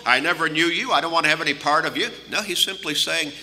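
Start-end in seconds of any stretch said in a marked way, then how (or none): 0.1-2.1 quicker, rhetorical restating of "I never knew you"; brisk imitated dismissal, ending in question; questioning rejection. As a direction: toss it out as a doubtful question, rising on "you". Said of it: "is Jesus discriminating against certain people?".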